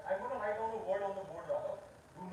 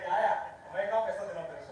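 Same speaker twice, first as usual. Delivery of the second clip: mock brush-off; 9 dB louder, much faster than usual. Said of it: "He's like".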